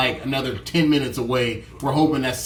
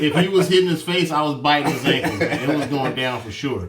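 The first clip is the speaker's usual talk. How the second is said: laughing. Real, not acted. Joking brother laughs while telling.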